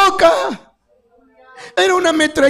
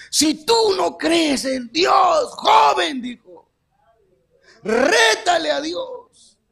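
slow, higher, pleading preacher voice; preacher's challenge; 4 semitones higher, much slower than usual. Retold or imitated. Testimony to the congregation, imitating the pastor's slow dare. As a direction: stretch it out like the pastor daring him.

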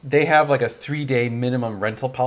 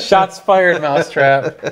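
excited; 4 semitones higher, 8 dB louder, slower than usual. Real, not acted. Teasing a friend over a jab.

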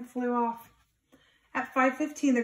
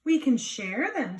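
gentle suggestion; 3 semitones higher, 4 dB louder, slower than usual. Acted. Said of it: "suggested the friendly ladybug".

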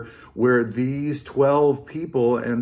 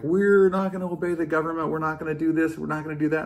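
raised, held monotone protest; insistent mock-protest on one raised note; imitating defiant crowd; 4 semitones higher, faster than usual. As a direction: chant it like stubborn objectors. Imitating defiant people quoted.

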